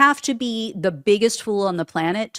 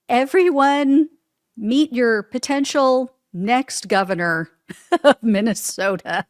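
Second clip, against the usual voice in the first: mock announcement; 4 semitones higher than usual. Real, not acted. Host sarcastically introducing Lindell to viewers. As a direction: present him with mock pomp.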